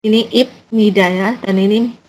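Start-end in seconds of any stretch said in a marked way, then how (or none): 0.3-1.1 "ibnida" slowly as ip, then nida; "ibnida" as written, with B or P, not M; spelt-out pronunciation. Shown as a demonstration. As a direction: say "ibnida" with a clear stop after the first syllable. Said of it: "untuk mengingat imnida".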